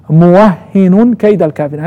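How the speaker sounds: موهن as muwahhinun, then كيد as kayda; doubled h in موهن. Shown as a demonstration. Teacher repeating the first reading, doubled h in موهن. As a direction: recite موهن with shadda and -un. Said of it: "يعني بالتشديد".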